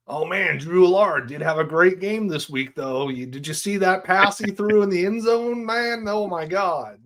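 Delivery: wailing hype, stretched words; Ben. Acted. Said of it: "That was my Ben impression".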